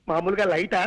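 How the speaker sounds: low, everyday register; light voice. Shown as a demonstration. Son-in-law demonstrates volume options to mother-in-law, light and low. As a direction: offer the lowest setting of your voice. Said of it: "నా voice ఎలా మార్చమంటారు?".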